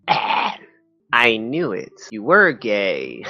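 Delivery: lightly voiced, slow knowing fisherman; a hint of a slow old fisherman. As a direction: drawl it out like you knew all along. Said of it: "a consistent voice for him".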